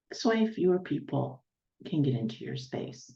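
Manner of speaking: measured meditation guide with long pauses; guided meditation. Real, not acted. Healer guiding listeners to settle into their aura, guided meditation. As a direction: talk them gently through each step, leaving room between phrases.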